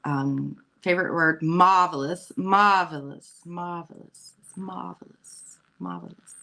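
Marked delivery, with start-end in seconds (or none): 1.4-4.3 imitating his word. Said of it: "he has a very, very, um, favorite word". 4.4-6.3 put-on failed British accent. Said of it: "I can't say it in a British, English accent".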